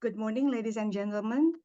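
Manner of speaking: speaking up clearly; projecting so the room can hear. Real, not acted. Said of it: "Can you hear me now?".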